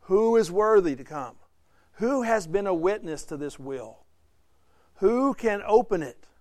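mildly proclaiming, spaced-out questions; angelic challenge. Acted. Angel challenges all of creation, measured proclaiming tone. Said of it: "challenged all of creation with this voice".

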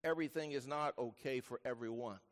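low, soft, measured statement; sober correction. Real, not acted. Preacher wants listeners to know otherwise, low sober voice. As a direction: drop low and soft for the hard truth.

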